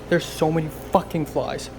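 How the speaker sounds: loud exasperated cursing at flies; swearing tirade. Real, not acted. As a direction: rant furiously at the flies. Flies on her banana.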